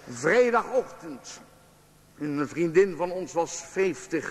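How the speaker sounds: reading aloud. Acted. Author reading his diary to the audience, measured reading. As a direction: read your own diary entry to an audience.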